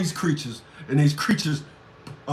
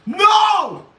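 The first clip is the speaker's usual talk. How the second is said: laughing shout; 10 semitones higher, 3 dB louder than usual. Real, not acted. Laughing outburst at a chat comment.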